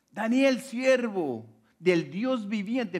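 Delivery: high, loud, drawn-out calling; imitated sad shout. King calling to Daniel in the lions' den, imitated sad shout. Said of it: "le gritaba a Daniel con voz triste".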